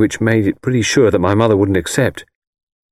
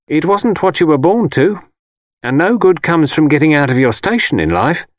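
mother's higher, insistent voice; disapproving mother; 8 semitones higher, 3 dB louder than usual. A narrator's reading. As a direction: lecture your son as his disapproving mother. Mother's voice in the story.

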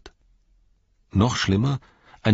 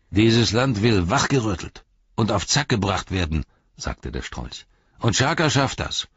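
menacing ruffian. Acted. Ruffian warning the hobbits about Shaka, bullying threat. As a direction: lean on them hard.

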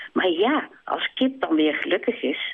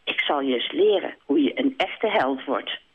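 lower, stern swan lesson; 4 semitones lower than usual. Acted. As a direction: promise to teach him, gravely. Zwaan stern.

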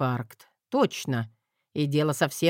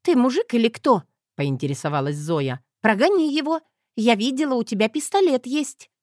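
higher, louder mocking wife's voice; demanding young wife; 8 semitones higher, 4 dB louder than usual. A narrator's reading. Wife goading her husband to shoo the rooster, higher voice. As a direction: needle him up high.

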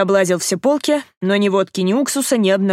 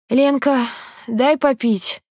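hoarse rasp; 5 semitones higher, slower than usual. A narrator's reading. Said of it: "просипела она".

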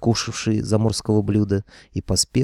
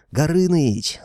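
loud high call across the shore; yelling a name; 8 semitones higher, 3 dB louder, slower than usual. A narrator's reading. Hero yelling for Gorynych to come, loud call. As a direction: shout for the dragon to come. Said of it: "заорал я".

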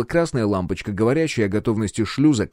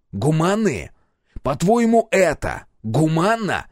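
scornful scoff; 7 semitones higher, slower than usual. Acted. Captain scoffs at pilot's humane idea, high scorn. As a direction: throw the word back at him.

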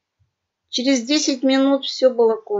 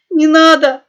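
much louder, higher tearful cry on «надо»; loud crying plea; 6 semitones higher, 12 dB louder than usual. A narrator's reading. Young pug crying at the gun barrel. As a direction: burst into tears begging. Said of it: "громко расплакался молодой мопс".

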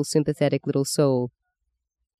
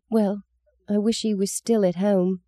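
put-on little girl voice; 5 semitones higher than usual. Meggie answers softly.

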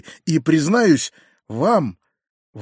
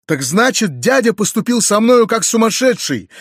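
higher, louder cry of vexation; exasperated outburst; 6 semitones higher, 5 dB louder than usual. A narrator's reading. Narrator crying out to Nastenka about his uncle, higher, louder and exasperated. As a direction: burst out in unbearable annoyance. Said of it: "вскричал я в припадке нестерпимой досады".

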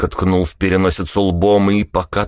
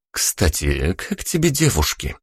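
sly question. A narrator's reading.

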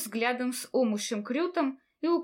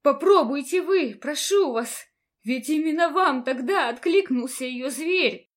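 loud, higher, urgent begging; pleading cry; 3 semitones higher, 7 dB louder than usual. A narrator's reading. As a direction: implore him with everything. Heroine begs Rotasius.

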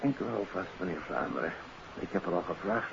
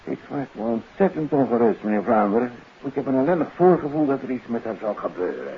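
anxious worry; 6 semitones higher, 5 dB louder than usual. Acted. Anxious father tells of daughter.

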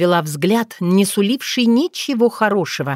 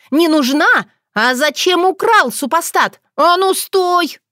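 shouting; 9 semitones higher, slower than usual. Acted. Otrada chasing Bogdan round the room, screaming. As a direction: scream after him as you run. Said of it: "кричала она".

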